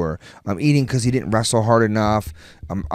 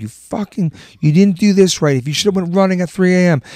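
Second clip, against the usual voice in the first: higher, louder imitation of an angry dad; mock dad scolding; 7 semitones higher, 4 dB louder than usual. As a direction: imitate a dad tearing into his kid. Dad scolding him after a loss.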